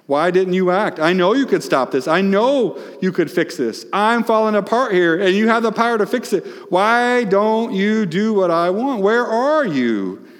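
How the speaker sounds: high, loud, pleading cry; Mary crying out to Jesus, anguished and loud; anguished plea. Retold or imitated. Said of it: "Mary is saying".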